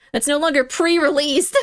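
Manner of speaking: mildly indignant, insistent exclamation. Real, not acted. Streamer protesting a sealed pre-release kit, indignant. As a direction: insist on it in mock outrage.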